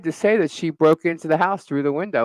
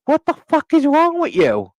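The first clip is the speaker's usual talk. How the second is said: high, loud laughing yell at the neighbor; retold scream; 12 semitones higher, 5 dB louder than usual. Yelling at the neighbor sneaking past, laughing scream. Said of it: "I started screaming".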